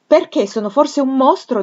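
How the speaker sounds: high, loud and stung; a young woman's hurt, indignant cry; indignant outburst. A narrator's reading. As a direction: throw the question back, wounded and offended. Jane retorts, stung by Fairfax.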